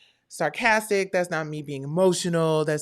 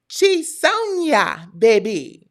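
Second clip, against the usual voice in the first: excited shout-out; 6 semitones higher, 9 dB louder, much slower than usual. Real, not acted. Shouting out a viewer.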